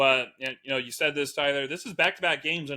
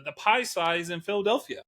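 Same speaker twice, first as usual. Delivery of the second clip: usual speaking voice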